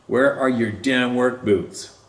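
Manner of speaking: retold yell.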